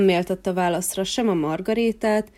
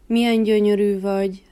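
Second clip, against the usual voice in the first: buzzing bee; 5 dB louder than usual. Acted. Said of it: "dongta körül Fokker".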